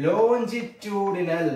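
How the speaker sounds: longitudinal drawn out, syllable by syllable, very slow; dictating slowly. Shown as a demonstration. Teacher to students naming the term, very slow drawn-out dictation. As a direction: spell the word out for the class by voice, very slowly. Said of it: "അതല്ലെങ്കിൽ നമ്മൾ പറയും or".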